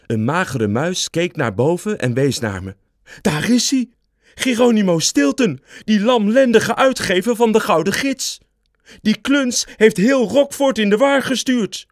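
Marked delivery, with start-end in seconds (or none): 3.2-11.9 accusing mouse. A narrator's reading. Skinny mouse in the crowd denounces Stilton, high angry shout. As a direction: point him out to the crowd with scorn.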